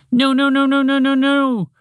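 high, loud panicked string of nos; sputtering. Acted. Mouse panics as moose turns toward chocolate, sputtering high. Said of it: "Montgomery the Mouse sputtered".

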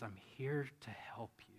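soft, gentle whisper; calm whisper. Retold or imitated. Gandalf comforting Bilbo, soft calm whisper. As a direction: soothe a frightened friend. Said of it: "And his voice gets calm".

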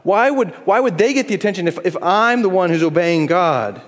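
mock indignant, rising on why would; hammed-up self-righteous grumble. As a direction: play the pious complainer. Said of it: "Self-righteousness".

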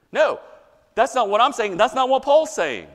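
high, loud denial; emphatic rebuttal. Acted. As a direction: push back hard on the objection.

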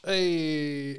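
whispered radio shout; radio station call. Pretend. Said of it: "do this for the Australian listeners".

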